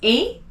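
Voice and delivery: a clean closed é vowel on "A"; French é sound. Shown as a demonstration. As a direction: say a pure "A", like English "ay". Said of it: "makes the sound".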